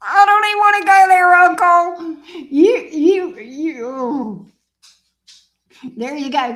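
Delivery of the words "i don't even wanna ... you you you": high, loud, fast sassy pet; louder pet voice. Pretend. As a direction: shout back as the pet, higher. Voicing the dog again, higher.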